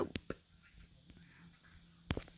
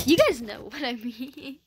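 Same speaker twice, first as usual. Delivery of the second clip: laughing; 2 semitones higher, 8 dB louder than usual. Real, not acted. Admits temper to viewers.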